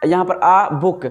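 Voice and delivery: आ held open, then बुक with lips closing; slow, open आ before a closed बुक; drawn-out demo sounds. Shown as a demonstration. Teacher showing students how आ and बुक are formed. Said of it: "जब आ बोल रहे हैं तो मुंह खुल जा रहा है".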